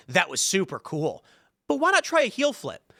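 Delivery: syrupy tutor, mocked; mocking gentle tutorial. Tutorial coaxing after a wrong trick, mocked sweet voice. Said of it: "It's like".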